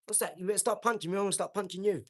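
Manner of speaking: demonstrating aggressive ring talk; confrontational fight talk. Shown as a demonstration. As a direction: goad an opponent in the ring. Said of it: "I talk like this".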